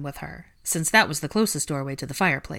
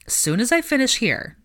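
lazy drawl; 7 semitones higher, 4 dB louder than usual. A narrator's reading. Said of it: "Draco drawled lazily".

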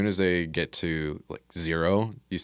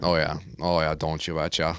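put-on Minnesota accent. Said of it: "that Minnesota accent".

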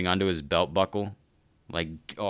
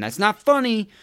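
mock indignant; 13 semitones higher, 6 dB louder than usual. Real, not acted. Repeat of earlier line, higher.

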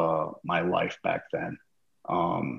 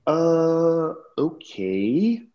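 meek reply; 9 semitones higher, much slower than usual. Retold or imitated. Wife threatens him over the pay.

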